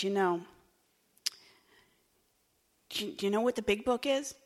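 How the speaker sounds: lovingly. Retold or imitated. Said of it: "pulled me aside very lovingly".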